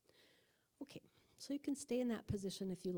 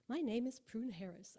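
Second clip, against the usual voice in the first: attempted British accent; 3 semitones higher, 4 dB louder than usual. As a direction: have a half-hearted go at sounding British. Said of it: "I can't do a British accent".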